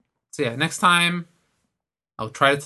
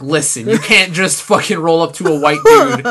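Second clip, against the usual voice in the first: louder, laughing mock scolding; mock indignant rant; 7 dB louder than usual. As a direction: scold her in mock outrage. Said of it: "and I was like".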